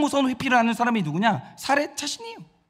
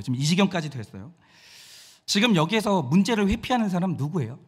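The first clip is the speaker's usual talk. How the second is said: normal talking voice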